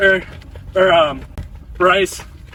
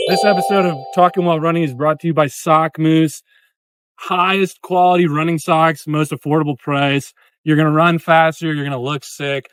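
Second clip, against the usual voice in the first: ad read; 4 semitones lower than usual. Acted. Sponsor ad read mid-episode.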